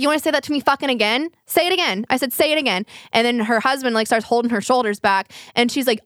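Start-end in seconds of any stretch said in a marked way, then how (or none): 0.0-2.8 higher-pitched, confrontational dare, re-enacted; retold challenge. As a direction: dare them, acting out your own comeback. Retold challenge in elevator quarrel.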